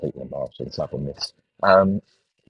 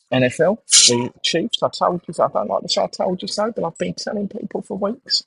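gloating; 10 semitones higher, 6 dB louder than usual. Real, not acted. Gloating about the Chiefs.

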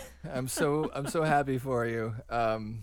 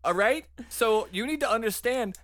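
higher, hammed-up Brooklyn accent with a laugh in it; mock Brooklyn tough guy; 6 semitones higher than usual. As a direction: play a pushy guy from Brooklyn. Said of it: "Hey, I'm from Brooklyn".

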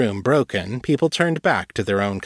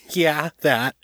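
put-on higher, giggly drunk agreement; tipsy amusement; 7 semitones higher than usual. A narrator's reading.

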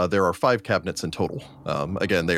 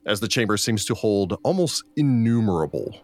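deliberate, drawn-out room description; game master scene setting; 3 semitones higher than usual. Acted. Game master reveals a chamber of shelves, narrating. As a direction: paint the room slowly, pausing between phrases.

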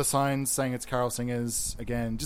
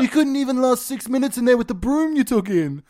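teasing; 10 semitones higher, 5 dB louder than usual. Retold or imitated. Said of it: "he's teasing me like".

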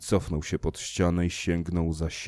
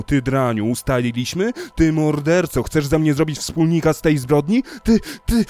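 loud, higher, rising fury; furious shouting; 8 semitones higher, 8 dB louder than usual. A narrator's reading. Martin shaking Tom, shouting him down in rage. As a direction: bellow each insult at the man. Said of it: "krzyczał".

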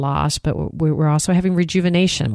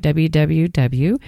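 Texan; much slower than usual. Real, not acted. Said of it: "I sound like a Texan every time I say that".

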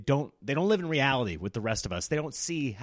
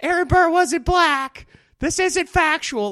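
high, slow, louder mock outrage; hammed-up heckler getting louder; 6 dB louder, slower than usual. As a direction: push the fussy heckler voice harder and louder.

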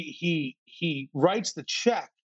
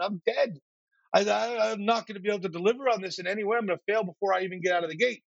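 retold panic, higher and rushed; mock-panicked, racing higher voice; panicked dread; 4 semitones higher, faster than usual. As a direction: spill out doom in a hurry. Retelling own dread after the deal.

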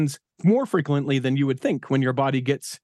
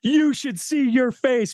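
imitating a dad cracking up, higher and slow; mock laughter, voice pitched up; laughing; 10 semitones higher, slower than usual. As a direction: retell his giddy laughing line. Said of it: "starts laughing so hard".

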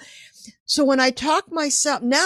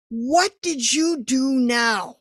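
slow, drawn-out self-reproach; inner self-scolding; much slower than usual. Retold or imitated. Artist alone in his studio scolding himself, slow and drawn out. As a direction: scold yourself in disbelief. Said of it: "was what going through my head".

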